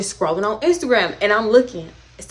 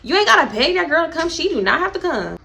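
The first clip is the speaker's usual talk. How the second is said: dismissive; 6 semitones higher than usual. Retold or imitated. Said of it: "Dream is telling Dime".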